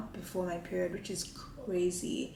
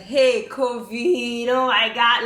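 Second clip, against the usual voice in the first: loud, drawn-out mock panic; retold freak-out; 2 semitones higher, 10 dB louder, slower than usual. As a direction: reenact freaking out, hammed-up and loud. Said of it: "like, I was freaking out".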